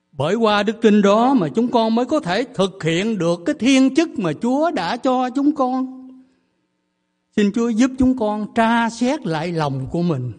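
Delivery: loud, earnest pastor's prayer; fervent prayer. Acted. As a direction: lift the congregation's prayer to God. Leads congregation in prayer.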